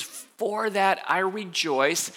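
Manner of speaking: slow, with weight on that; emphatic. Shown as a demonstration. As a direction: lean on that, drawing the line out slowly. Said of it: "notice how emphatic he is".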